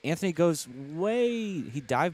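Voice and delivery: sudden surprised call; sudden urgent call; excited race call. Real, not acted. Sudden dive bomb pass.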